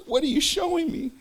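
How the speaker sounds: high, awed asking; astonished question. Retold or imitated. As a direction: ask in wide-eyed wonder. Speaker asks God in vision.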